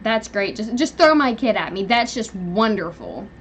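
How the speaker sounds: put-on biting sarcasm, rising on the kid line; sarcastic retort. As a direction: throw the sarcasm back at him. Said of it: "I literally went off".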